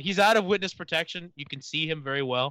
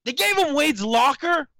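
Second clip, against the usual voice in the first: surprised; 8 semitones higher, 5 dB louder, slower than usual. Real, not acted. Repeats news in disbelief.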